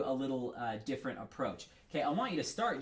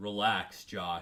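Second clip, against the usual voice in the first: put-on very deep voice, lower; 6 semitones lower than usual. Retelling a teacher's words during a piano lesson: imitating Awadadjin Pratt's very deep voice. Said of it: "the deepest voice you can imagine".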